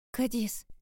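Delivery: high, urgent call; trembling alarm. A narrator's reading. Shaking narrator calling to Kadis, alarmed. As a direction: call the name in rising alarm. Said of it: "Я дрожала всем телом".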